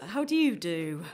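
echoing his stiff greeting back, teasing; mock formal echo. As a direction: parrot his formal phrase playfully. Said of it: "I see what you did there".

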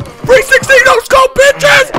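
high, shouted gamer boast; high, shouted victory yell; triumphant brag. Real, not acted. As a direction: crow over the kill. Gamer brag after a kill.

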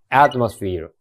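atmosphereのaを強く; ゆっくり頭を強調; 先頭に強勢. Shown as a demonstration. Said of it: "やっぱり戦闘なので". (第一音節に強勢)

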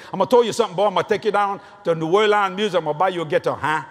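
lightly imitated Cajun accent; a hint of Cajun father talk; Cajun dad. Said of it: "My dad used to talk like this".

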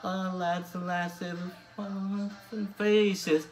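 sung in an attempted Newcastle Geordie accent. Vlogger covering Blaydon Races for his viewers, sung in a Geordie accent. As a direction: sing the folk song with a Geordie lilt, doing your best. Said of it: "I'll be trying this one in a Newcastle Geordie accent".

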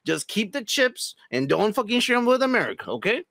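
mock dictator voice. Playing Kim ordering his people, hammed-up. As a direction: bark like a petty dictator.

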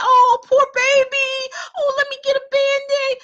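put-on baby the child with over-the-top pity; fussing mama. A mother cooing over her fallen child, doting.

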